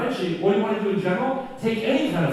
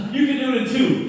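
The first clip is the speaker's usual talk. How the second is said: smart aleck teacher; 6 semitones higher, 4 dB louder than usual. Retold or imitated. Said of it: "smart aleck teacher".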